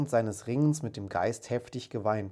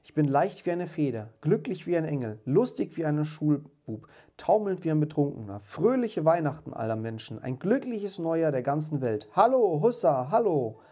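high, loud giddy exultation; jubilant cry; 5 semitones higher, 5 dB louder than usual. A narrator's reading. Scrooge greets the whole world after waking, jubilant. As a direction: build from elated exclaiming to whooping. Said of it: "rief Scrooge".

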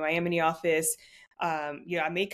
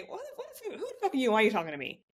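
imagined retort; 4 semitones higher, much faster than usual. Retold or imitated. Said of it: "that's what I really wanna say".

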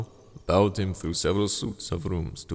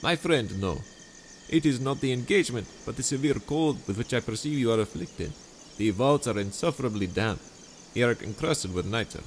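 higher, sweetly scheming host voice; honeyed charm pitched up high; Montresor, falsely friendly; 5 semitones higher than usual. Acted. Montresor dialogue.

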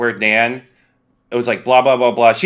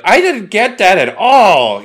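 confused; 9 semitones higher, 7 dB louder, slower than usual. Retold or imitated. Imitates own confused reaction.

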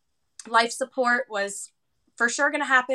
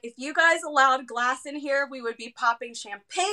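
giddy celebration; 3 semitones higher, 5 dB louder than usual. Retold or imitated. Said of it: "I was like".

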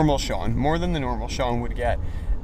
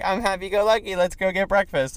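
chipper mock friend; 5 semitones higher than usual. Mimics cheerful friend after throwing up.

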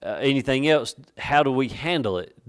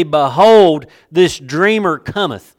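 mock scorn, loud on "Behold"; loud, slow sneering proclamation; scornful; 6 dB louder, slower than usual. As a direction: announce him with open scorn, drawing it out. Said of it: "you can just hear the scorn".

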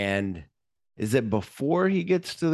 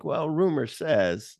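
sly villain; 6 semitones higher, slower than usual. Retold or imitated. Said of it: "of like".

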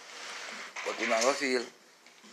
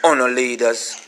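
loud furious ranting at leaders; angry rant; 2 semitones higher, 5 dB louder than usual. Real, not acted. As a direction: tear into them with rage.

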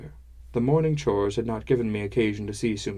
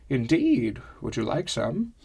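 put-on old woman voice; 2 semitones higher than usual. Old woman offers drink.

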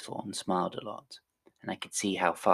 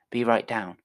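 calling out; 3 semitones higher, 7 dB louder than usual. Acted. Calling down from window.

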